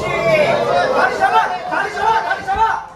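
loud, urgent corner shout; coach yelling. Real, not acted. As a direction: yell it across the mat.

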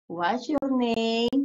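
"What's your name?" very slow, each word stretched; slow pronunciation model. Shown as a demonstration. Teacher drilling the pronunciation of the question, very slow. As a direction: drag out "What's your name?" so pupils hear every sound. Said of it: "Pronunciation name".

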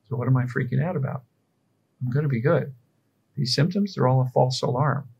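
steady, soothing self-talk; calm reassurance. Shown as a demonstration. Coach calming himself during symptoms, calm reassurance. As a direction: talk yourself down gently. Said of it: "that's calm reassurance".

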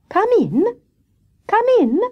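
high, singsong call to a visitor. A narrator's reading. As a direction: call 'come in' towards the door, pitched high. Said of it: "called Grey Rabbit".

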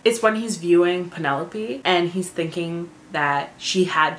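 measured, understated story reading; book narration. A narrator's reading. Fan reading a favorite book passage aloud, measured narration. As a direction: read the passage aloud with deliberate pauses.

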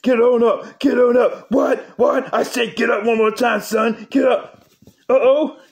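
lightly voiced Stone Cold wrestler promo; a hint of Stone Cold trash talk; mild Texas wrestler taunt; Stone Cold impression.

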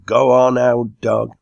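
loud, high crowd-style urging; crying out. A narrator's reading. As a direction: shout him on like the whole meeting. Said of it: "meeting unanimously cried out".

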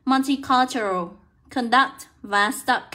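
"Multicultural", "conduct", "stuck" said word by word with a short uh; teacher's careful citation of "Multicultural", "conduct", "stuck"; pronunciation demo. Shown as a demonstration. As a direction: slowly model "conduct" and "stuck" with an uh vowel. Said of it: "được đọc là âm á nhá".

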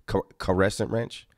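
"caressant" with an extra syllable, ka-RESS-ant; imitated mispronunciation. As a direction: mimic his stumbling "Car-, caressant". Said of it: "that's what he said".

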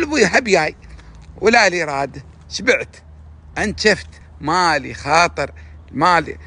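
mock tired lover. Man imitating a jaded person who no longer cares, lightly mocking. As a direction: play the fed-up one who has lost all desire, a touch whiny. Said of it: "يقول".

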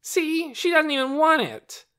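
put-on high, indignant child's shout; loud childish protest. A narrator's reading. Torin argues Lena doesn't want the egg, loud protest. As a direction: protest loudly like a jealous boy.

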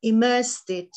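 measured poem recital with pauses between lines; poetry reading. Acted. Poet reading her Nausicaa poem to an audience, measured recital. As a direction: read it as verse, pausing after each phrase. Reads own poem aloud.

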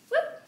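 squeaky high whoop; silly little yelp. Real, not acted. Playful exclamation.

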